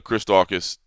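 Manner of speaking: mistaken name "Chris Daukaus", said slowly; wrong name. Real, not acted. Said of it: "Did I say Chris Daukaus?".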